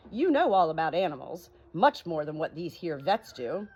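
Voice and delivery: chatty tradesman, rising eager; lightly voiced cat's meat man. Cat's meat man pitching animal doctoring, eager. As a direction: sell the idea with gusto.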